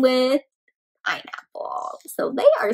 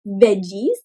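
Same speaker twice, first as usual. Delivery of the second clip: giggly egg; 2 semitones higher than usual. Acted. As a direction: giggle from the hiding spot. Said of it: "this one says".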